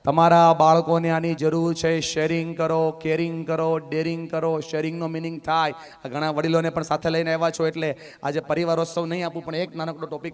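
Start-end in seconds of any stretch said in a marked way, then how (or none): 2.0-4.6 softer, calmer repeat of sharing કરો. Shown as a demonstration. Speaker repeats the words to the audience, softer. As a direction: bring it down, just say it plainly. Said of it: "જોશથી બોલો".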